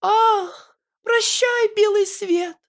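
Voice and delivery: very high melodramatic wail; very high hammed-up dying heroine; desperate moan. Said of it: "третий раз простонала Аннушка".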